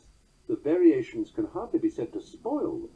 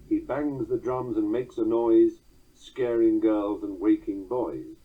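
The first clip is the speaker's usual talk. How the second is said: slow, sing-song recitation of verse; poem reading; 4 dB louder, slower than usual. Acted. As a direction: lean on the jog-trot rhythm. Recites his made-up verse.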